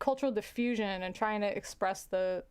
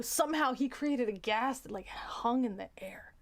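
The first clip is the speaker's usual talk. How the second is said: whisper. Real, not acted.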